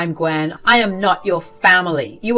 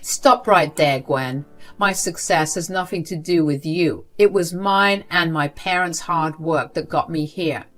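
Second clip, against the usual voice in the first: firm angry cutoff. Acted. Sarah cutting off her grandmother's fake praise angrily. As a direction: stop her dead.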